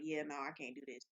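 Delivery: soft, low resigned murmur; weary inner voice. Retold or imitated. Worker telling herself she can't continue, soft resigned. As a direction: drop it, worn out. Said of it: "it was like".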